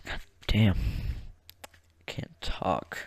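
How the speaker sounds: winded, soft and faint; out of breath. Real, not acted. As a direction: struggle to get the words out, short of breath. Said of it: "I'm running out of breath".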